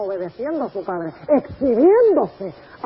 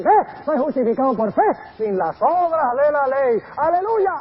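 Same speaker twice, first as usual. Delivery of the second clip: triumphant pastor; 3 semitones higher, 5 dB louder than usual. Retold or imitated. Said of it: "algunos pastores dicen".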